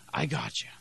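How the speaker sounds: soft, low, reassuring promise; gentle reassurance. Acted. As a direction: drop down low and soothe them. Voicing Jesus reassuring the needy.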